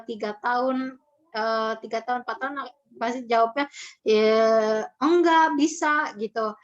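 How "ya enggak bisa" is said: put-on louder, slow sulky kid's answer; a toddler drawling a stubborn no; sulky child reply. Mother asks why the tantrum, child answers with a loud, slow no.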